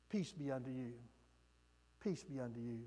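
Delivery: quiet tender Jesus voice; soft peace. Acted. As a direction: let the words fall gently to a hush. Jesus repeats peace, softer.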